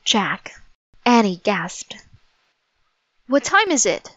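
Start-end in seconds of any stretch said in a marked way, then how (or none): 3.3-4.1 high-pitched, urgent question; crying out. Acted. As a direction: cry it out anxiously without shouting. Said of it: "cried Jack".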